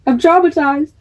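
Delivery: high, pleading protest; flustered. Retold or imitated. Shaken cadet telling Josh to stop, high pleading protest. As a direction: beg him to stop, rattled.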